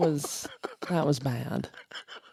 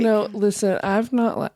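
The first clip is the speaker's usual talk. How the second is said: laughing through pain; 3 semitones higher than usual. Real, not acted. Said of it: "it hurts to laugh because I've not done it".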